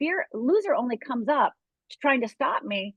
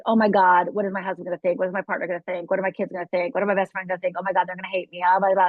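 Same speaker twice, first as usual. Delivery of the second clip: anxious client; 5 semitones lower, faster than usual. Retold or imitated. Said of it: "I hear over and over again".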